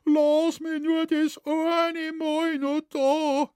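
high, slow pleading voice of a frightened man; retelling a man pleading for mercy; imitated begging. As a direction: beg in a thin, high whine, drawn out. Shoemaker begging the devil.

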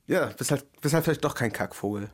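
slurring the words tipsy. Real, not acted. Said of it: "Du sprichst das schon wieder aus wie".

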